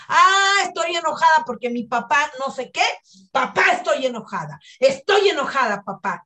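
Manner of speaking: a touch of a furious daughter; angry at dad. Retold or imitated. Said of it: "recordar de qué estás enojada".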